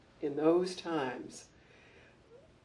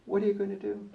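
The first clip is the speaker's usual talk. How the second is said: imitated boss, higher and knowing; smile in voice; 4 semitones higher, much faster than usual. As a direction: toss the problem back with an audible smile. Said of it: "hear the smile in his voice".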